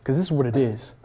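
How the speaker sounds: firm, forward demand; direct, aggressive. Shown as a demonstration. Job seeker going for the jugular, direct. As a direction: state it directly, leave no room for argument. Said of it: "Be direct".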